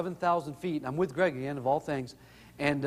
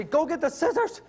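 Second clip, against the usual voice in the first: urgent call; 9 semitones higher than usual. Retold or imitated. Calling out to daughter.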